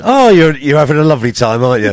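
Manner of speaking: gushing, loud start, easing down; delighted doggy-talk. Retold or imitated. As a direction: fuss over your pet, swooping down. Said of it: "when you do talk to your dogs".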